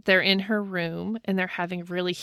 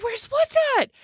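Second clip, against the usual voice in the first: high puzzled question; bewildered high-pitched echo; confused. Retold or imitated. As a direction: ask back, baffled and high. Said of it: "And she's like".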